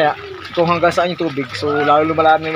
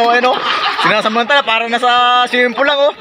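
words broken by laughter; laughing; 6 semitones higher than usual. Real, not acted. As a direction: chuckle through the words. Laughing at kids playing in flood.

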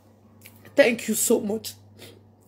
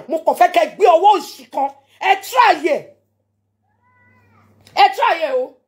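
defiant dare; 3 semitones higher, 4 dB louder, faster than usual. Real, not acted. Daring her enemies to attack her, loud and taunting. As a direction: dare them to try, scornful.

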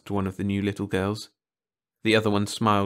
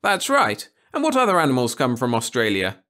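high, loud teacher voice; schoolteacher to class; 3 semitones higher, 5 dB louder than usual. Acted. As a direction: call the class together on a trip.

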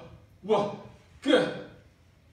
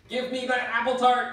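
loud demand; 10 semitones higher, 8 dB louder than usual. Acted. Grabbing tart in chaos.

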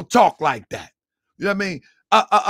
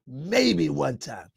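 mocking impression through laughter; 5 semitones lower, 7 dB quieter, slower than usual. Mocking the clip again, laughing.

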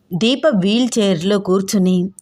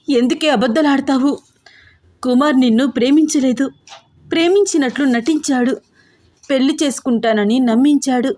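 higher, heated mock shouting; shouting loudly; 5 semitones higher than usual. Older sister telling her sister the truth, raised angry voice. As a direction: blurt out the whole betrayal in anger. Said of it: "చాలా గట్టిగా అరుస్తూ అంటోంది దీప".

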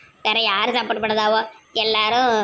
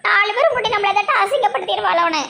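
crying; 6 semitones higher than usual. Acted. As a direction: sob the words out, hurt. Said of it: "முதல்ல அழுறத நிப்பாட்டுங்க". (அழுதுகொண்டே பேசுதல்)

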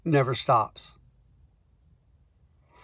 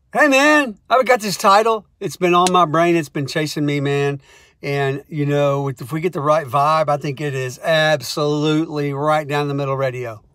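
stoned co-writer; 3 dB louder than usual. Retold or imitated. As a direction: play the stoned writer pitching a title. Stoned co-writer voiced in story.

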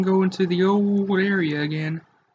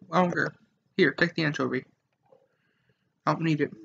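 soft, sulky brooding mutter; sulky mumble; 5 dB quieter than usual. Acted. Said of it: "I don't know why I'm talking like this".

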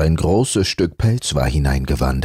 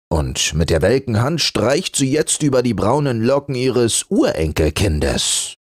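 mild laugh; 8 semitones higher than usual. Acted. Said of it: "lachte der Pelz".

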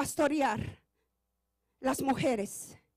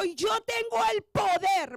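preaching God's words; 5 semitones higher than usual. Acted. God's voice quoted, preached loud.

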